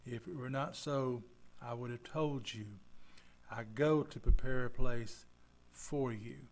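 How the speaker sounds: slow, deliberate scripture read. Acted. Pastor reading Jesus' comforting words, slow. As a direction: read it slowly and steadily.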